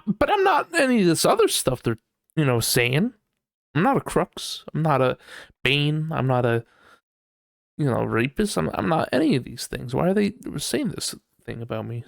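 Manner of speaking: indignant. Retold or imitated. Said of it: "you're like".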